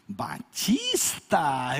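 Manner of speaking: put-on slow, drawn-out sweet girl's voice; sweet little voice. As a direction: sweetly ask like a little daughter-in-law. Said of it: "com aquela vozinha doce dela". (vozinha doce e arrastada)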